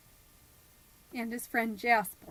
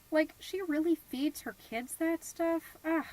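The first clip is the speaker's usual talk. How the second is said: snide; 6 semitones higher than usual. Acted. Snobby judgment of neighbor.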